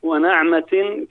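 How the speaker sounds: ونعمة recited as "wa-na'matin", with an open "na"; fatha on the nun. Shown as a demonstration. Guest resumes the verse, saying ونعمة slowly as "wa-na'matin". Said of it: "بفتح ال-، النون".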